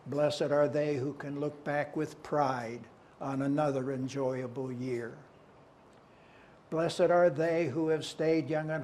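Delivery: measured litany with a repeated opening; poem recitation. Acted. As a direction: recite each blessing evenly, pause between them.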